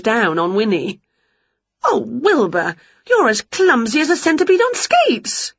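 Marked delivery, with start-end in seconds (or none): 1.8-5.5 mild shout. A narrator's reading. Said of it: "shouted Winnie".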